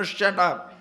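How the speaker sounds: a touch of a snapped shut up, voiced lightly; imitated retort. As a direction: toss it off like an annoyed neighbor. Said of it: "to let him know".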